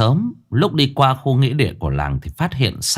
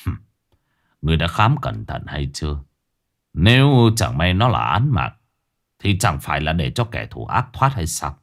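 frowning magistrate; 5 semitones lower than usual. Acted. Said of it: "cau mày".

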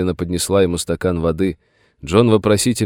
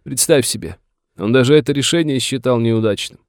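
higher, plaintive indignation; aggrieved old master; 7 semitones higher, 3 dB louder than usual. A narrator's reading. Master grumbles to the sheriff about his son, aggrieved. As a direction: complain like a wronged father.

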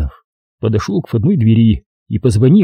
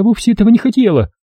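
higher, pleading self-excuse; justifying herself; 11 semitones higher, faster than usual. A narrator's reading. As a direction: excuse yourself, half to yourself. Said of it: "стала она оправдываться". (вдова оправдывается перед собой)

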